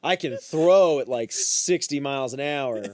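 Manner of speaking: amused, laughing at himself. Real, not acted. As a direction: chuckle through it. Laughing while telling own failure.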